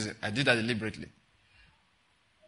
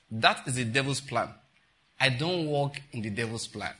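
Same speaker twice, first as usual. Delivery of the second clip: lower-pitched, as if it doesn't matter; very calm; 4 semitones lower than usual. Retold or imitated. Quoting the prophet's reply to the woman, very calmly. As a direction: answer evenly, entirely unbothered. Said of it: "Very calmly. Like, it doesn't matter".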